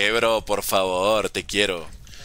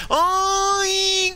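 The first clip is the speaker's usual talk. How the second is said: mock sob. Touched by own words.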